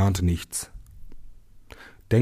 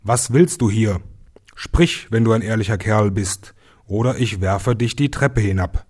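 louder, challenging call up the stairs; bold, raised challenge; 2 semitones higher, 4 dB louder than usual. Acted. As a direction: shout a threat at the silent figure. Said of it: "Der Junge rief zum zweiten Mal".

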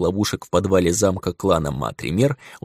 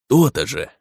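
smug; 4 semitones higher than usual. Acted. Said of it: "хмыкнул вампир".

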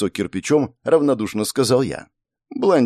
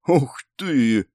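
wide-eyed wow; light astonished cry; surprised exclamation; 4 semitones higher than usual. A narrator's reading. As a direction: blonde impressed by his story. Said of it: "воскликнула удивлённо она".

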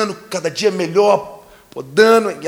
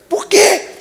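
shocked high why; 10 dB louder than usual. Retold or imitated. Neighbor shocked question.

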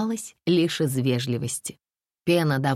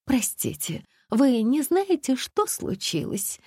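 worried question; 10 semitones higher, slower than usual. A narrator's reading. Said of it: "взволнованная женщина".

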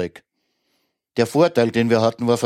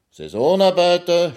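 high-pitched indignant exclamation; outraged cry; 9 semitones higher, slower than usual. A narrator's reading. Master throws the servant's word back, high outraged cry. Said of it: "schrie der Herr".

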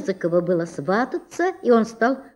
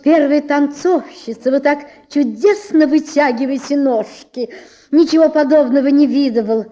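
gushing flattery; 4 semitones higher, 5 dB louder than usual. Acted. Collar flatters the scissors.

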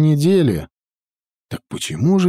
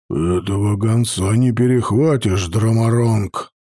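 гордый гном-воин; 4 semitones lower than usual. Acted. Гордый Хродер возражает.

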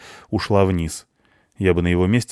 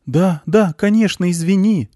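high, louder quick backing down; hasty concession; 13 semitones higher, 5 dB louder than usual. A narrator's reading. Woman yielding to the indignant director, hastily conceding. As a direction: give in at once, pitched high. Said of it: "тут же сдалась та".

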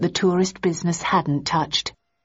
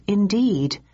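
plain reading voice

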